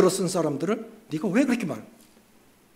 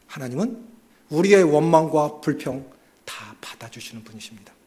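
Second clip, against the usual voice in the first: usual speaking voice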